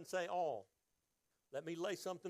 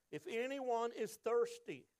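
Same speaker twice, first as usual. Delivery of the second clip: loud, slow and higher call; 6 semitones higher, 3 dB louder, slower than usual. A narrator's reading. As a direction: call it out so everybody hears. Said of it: "said in a loud voice".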